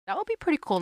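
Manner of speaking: a quick gleeful aside; playful excitement. Real, not acted. Joking aside about a Tesla.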